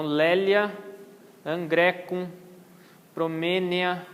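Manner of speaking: AE in "lélia" said as a plain E; diphthong as E. Shown as a demonstration. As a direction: read "lélia, angrecum, promênia" with single E. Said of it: "tem som de E só". (ditongo com som de E só)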